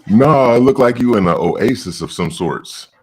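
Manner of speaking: glitchy robotic connection; robot voice from a bad connection. Real, not acted. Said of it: "You sound like a robot there".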